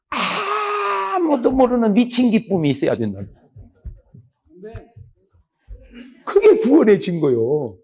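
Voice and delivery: slow, high, drawn-out preaching; slow impassioned sermon line; fervent preaching. Acted. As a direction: proclaim it with fervor. Preacher stresses saved joy.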